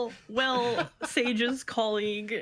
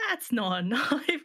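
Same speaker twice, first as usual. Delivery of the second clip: put-on Australian accent; slower than usual. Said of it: "that's Australian".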